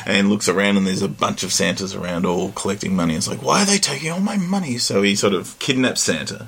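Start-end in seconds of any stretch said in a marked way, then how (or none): 3.4-4.8 high outraged alien squawk; alien invader voice. Retold or imitated. Zim's outraged quote.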